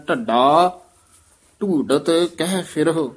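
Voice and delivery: ਢੱਡਾ and ਢੂਡਤ both with breathy ਢ; both aspirated. Shown as a demonstration. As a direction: sound the ਢ in ਢੱਡਾ ਢੂਡਤ clearly. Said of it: "ਦੋਵੇਂ ਢੱਡੇ ਬੋਲਨੇ ਆ".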